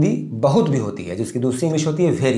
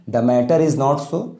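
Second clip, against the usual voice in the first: slow dictation; much slower than usual. Shown as a demonstration. Teacher dictating model sentence.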